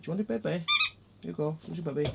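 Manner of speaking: soft, high offering; high-pitched pet voice. Real, not acted. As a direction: tempt a dog with its toy. Offering dog its toy.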